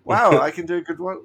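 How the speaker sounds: loud raspy alien junk dealer; Watto voice. Acted. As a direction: growl it out like Watto. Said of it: "professional Watto impressions".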